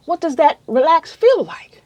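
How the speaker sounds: breathy whisper of a question; whispered wonder. Retold or imitated. Patient asking herself in her head, whispered. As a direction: ask it in a hushed whisper.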